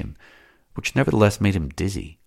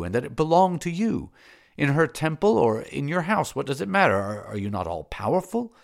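lightly voiced, higher, fervent lover; Matho pleading; 8 semitones higher than usual. Matho begging Salambo to understand him, fervent and higher. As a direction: rise into adoring praise.

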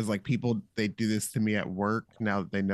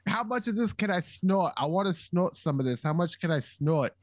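lightly voiced caller, pitched up; higher-pitched mock phone voice; imitated phone caller; 5 semitones higher than usual. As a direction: mimic her leaving an eager message. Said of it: "she calls and she goes".

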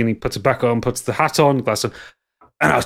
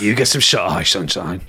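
put-on Cockney accent; 4 semitones lower than usual. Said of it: "with a Cockney accent".

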